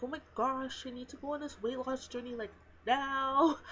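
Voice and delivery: mock panic. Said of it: "I'm like".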